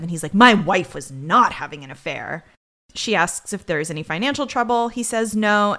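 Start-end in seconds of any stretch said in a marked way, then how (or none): 0.3-2.4 mild mock defensiveness; defensive. Host quoting the husband defending his wife, lightly defensive. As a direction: snap back a touch defensively. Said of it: "he immediately gets defensive".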